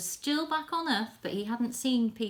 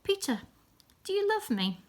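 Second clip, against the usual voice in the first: gently acted Jesus; 12 semitones higher, 4 dB louder than usual. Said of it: "And he said".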